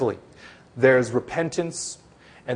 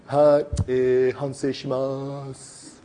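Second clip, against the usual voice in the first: slow, drawled-out mock apology; insincere apology; slower than usual. Snowboarder at his press conference, insincere apology. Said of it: "this kind of attitude like".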